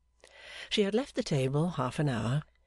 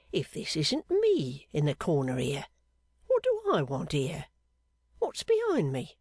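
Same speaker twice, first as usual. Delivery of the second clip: palm reader revealing. Acted. Fortune-teller reading the seamstress's palm, dramatic reveals. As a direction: unveil each figure with a flourish. Pancks puzzling over palm.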